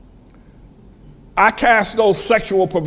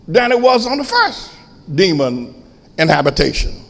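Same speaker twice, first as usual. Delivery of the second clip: raised, emphatic pulpit warning; forceful preaching; 5 semitones higher, 4 dB louder than usual. Real, not acted. Preacher warning his congregation about returning demons, forceful preaching. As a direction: preach the warning, punching key words.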